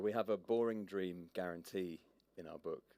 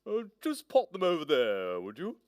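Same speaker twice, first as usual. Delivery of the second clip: fussy, higher llama receptionist; officious llama voice; 7 semitones higher, 7 dB louder than usual. Acted. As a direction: brush her off like a busy clerk. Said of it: "Said the smartly dressed llama".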